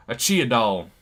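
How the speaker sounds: Texas twang with a laugh in it, slowed. Pretend. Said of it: "Saying that with a twang".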